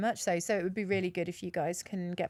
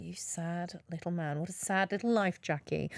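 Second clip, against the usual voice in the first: scornful put-down. Retold or imitated. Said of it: "And you're just like".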